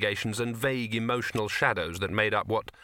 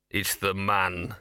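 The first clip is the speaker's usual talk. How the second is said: growling; 3 semitones lower, much slower than usual. Acted. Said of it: "growled Gaspode".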